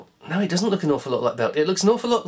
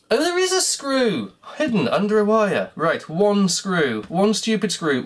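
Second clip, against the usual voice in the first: exasperated discovery; 5 semitones higher, 3 dB louder than usual. Real, not acted. Discovers a hidden screw.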